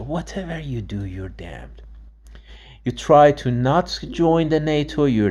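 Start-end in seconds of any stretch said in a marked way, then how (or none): 0.0-1.8 whispered. Real, not acted.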